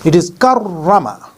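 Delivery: karrama with a long rolled double r; karrama, r held and stressed; doubled r. Shown as a demonstration. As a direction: press on the rr in karrama. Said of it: "We should spell it like".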